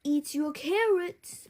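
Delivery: lightly voiced uncle with a cautionary tone; a hint of a fussy uncle's warning. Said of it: "warned Uncle Bob".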